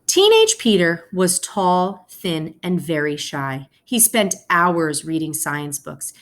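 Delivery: gentle read-aloud to the class; story narration. A narrator's reading. Teacher reading a picture book to her class, storytelling voice. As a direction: tell the story slowly to your students.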